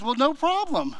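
high, breezy buddy voice; eager friend. Retold or imitated. Friend Charlie offers his car.

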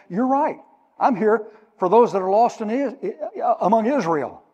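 high, laughing reply; Jesus answering the apostles. Acted. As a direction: chuckle through it.

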